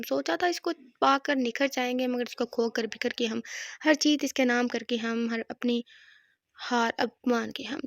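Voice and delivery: poem recital. Acted. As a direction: linger on each line like a lament.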